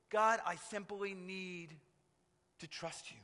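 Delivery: soft, hushed prayer fading away; quiet surrender. Pretend. A believer yielding to God, soft and hushed. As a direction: let it sink into a near-silent trust.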